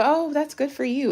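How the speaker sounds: high, breezy fake praise; dismissive people. People brushing off her book, a high breezy fake compliment. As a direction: toss it off like an indifferent acquaintance. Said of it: "the people".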